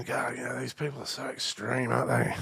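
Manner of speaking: soft inner aside; quiet thought. Retold or imitated. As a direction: say it to yourself, hushed. Private thought.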